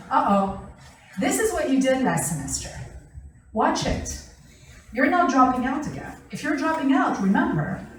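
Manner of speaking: reproachful, lecturing parent; warning tone. Shown as a demonstration. Parent lectures daughter about dropping out, reproachful. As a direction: wag a finger at her. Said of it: "But we say it in that tone".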